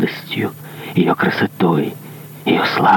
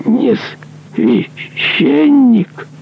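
shrill, much higher, slow disbelief; shocked cry; much slower than usual. Acted. Executioner horrified that the monk is no priest, much higher, slow. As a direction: cry out in horror. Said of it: "вскричал палач".

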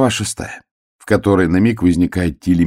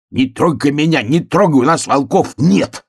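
high, pleading bear-cub cry; крик; 8 semitones higher, 3 dB louder than usual. A narrator's reading. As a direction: cry out higher, fending someone off. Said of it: "кричал медвежонок". (испуганный крик медвежонка)

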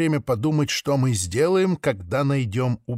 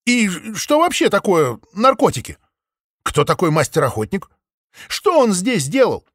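higher, louder pleading questions; exclaiming; 6 semitones higher, 4 dB louder than usual. A narrator's reading. Maple presses the flock with urgent, raised questions. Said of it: "воскликнула она".

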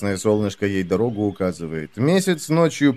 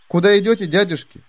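put-on bright girl voice; 8 semitones higher than usual. Heroine asks the men.

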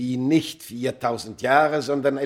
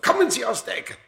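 higher, louder order; commanding call; 14 semitones higher, 5 dB louder, faster than usual. Acted. The mummy man ordering Smith out of hiding, loud command. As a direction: order him out of the corner.

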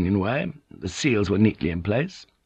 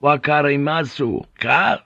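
raised, challenging question; gruff demand; 6 semitones higher than usual. Acted. Pilot demanding that the armed samurai understand, gruff. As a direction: press them to understand. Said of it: "to the samurai he said gruffly".

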